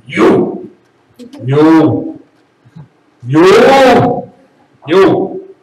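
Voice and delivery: separate, forceful accusing shouts; hammed-up angry outbursts; mad. Shown as a demonstration. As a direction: fire it at whoever angered you. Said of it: "when they make you mad".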